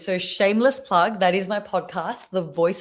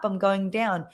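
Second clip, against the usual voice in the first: falling pitch. Shown as a demonstration. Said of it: "you go".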